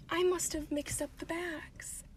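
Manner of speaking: soft, slow feigned oops; quietly owning up, drawn out; mock-innocent confession. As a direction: trail down to a small, guilty voice. Mock-innocent confession ending the story.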